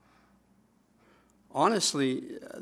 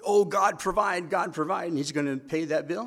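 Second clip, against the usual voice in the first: mock confident plea; 4 semitones higher, 5 dB louder than usual. Mimics naive confident plea for provision.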